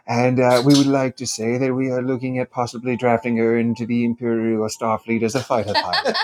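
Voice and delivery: put-on measured, formal admiral voice with an accent; formal villain checking in politely; Grand Admiral Thrawn. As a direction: play a courteous Star Wars Imperial officer. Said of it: "he was doing a character from Star Wars".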